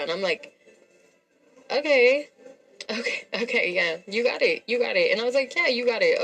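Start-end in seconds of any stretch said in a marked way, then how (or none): 1.7-2.3 high, loud rising "okay"; mock agreement, pitched right up; sarcastic okay. Woman answering her date's blame, sarcastic. 2.9-6.2 higher-pitched, placating mockery; sarcastic agreement. Woman giving in to her arguing date, sarcastically. Retold mock agreement in argument.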